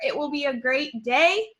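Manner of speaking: mildly excited read-aloud; upbeat demonstration of excitement for children; excited exclamation. Shown as a demonstration. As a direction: read it like it ends in an exclamation point. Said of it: "I'm being very excited with those things".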